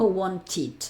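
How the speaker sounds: "Want it" con la sílaba final "tid" audible; -ed tras T. Shown as a demonstration. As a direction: pronuncia el final de "Want it" como sílaba propia. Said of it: "acaba en T y digo". ("Want it" con "-ed" en sílaba aparte)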